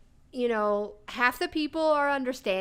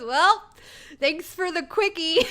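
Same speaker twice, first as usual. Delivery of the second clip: cheeky customer; 7 semitones higher, 4 dB louder than usual. Retold or imitated. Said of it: "he goes".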